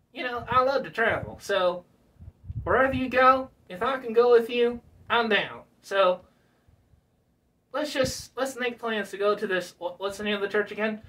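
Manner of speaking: an excited ventriloquist dummy; puppet voice. Pretend.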